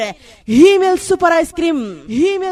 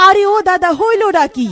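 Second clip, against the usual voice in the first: calling out; 5 semitones higher, 3 dB louder than usual. Acted. Skit calling out to grandpa.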